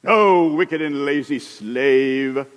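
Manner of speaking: slow, drawn-out mock condemnation; a master pronouncing judgment slowly; stern master. Master to lazy slave, slow stern mock condemnation.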